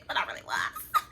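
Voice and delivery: high breathy laugh through the words; rueful laugh. Real, not acted. Laughing at herself over being devastated. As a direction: laugh it off while admitting the hurt.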